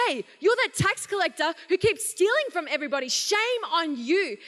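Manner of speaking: mock-scold a thief on behalf of Jesus; imagined scolding. Preacher imagines Jesus scolding Zacchaeus, light mock scold. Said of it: "expected Jesus to scold him".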